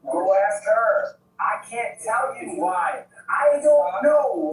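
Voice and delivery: yelling. Real, not acted. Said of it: "Stop yelling".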